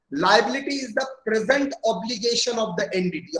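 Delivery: each word spelled out slowly for notes; slow dictation. Acted. Teacher dictating a definition to students, slow and even.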